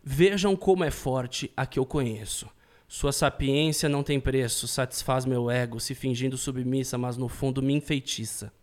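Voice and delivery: slow, earnest reading; solemn, eye to eye; very serious. Acted. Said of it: "de forma muito séria, olhando no seu olho".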